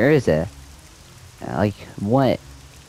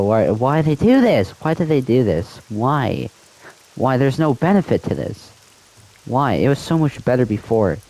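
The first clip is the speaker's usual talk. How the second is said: higher-pitched, frustrated repeated whys; exasperated rant; 5 semitones higher than usual. Real, not acted. Gamer ranting about changed emotes, real frustration. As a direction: plead with the game devs in real exasperation.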